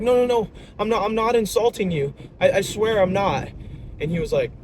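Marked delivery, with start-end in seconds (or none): 0.0-3.5 high, panicky imitation of a student; freaking out. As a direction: plead frantically, as a flustered kid. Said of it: "the kid's literally freaking out".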